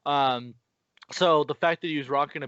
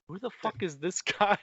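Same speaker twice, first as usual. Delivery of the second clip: higher, laughing through the question; laughing mock disbelief; 5 semitones higher than usual. The soldiers staring at the scientist, laughing mock disbelief. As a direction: break into a laugh mid-line, mocking. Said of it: "everyone else is just like".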